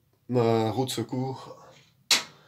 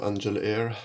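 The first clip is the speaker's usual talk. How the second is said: "angel hair" said slowly in a heavy French-English accent; self-mocking English accent; slower than usual. Real, not acted. The speaker jokes to viewers about his English accent. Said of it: "avec mon super accent en anglais".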